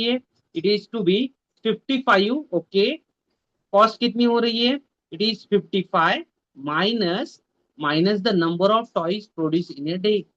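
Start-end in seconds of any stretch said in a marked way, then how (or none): 5.1-10.2 slow reading. Shown as a demonstration. Teacher reads question slowly.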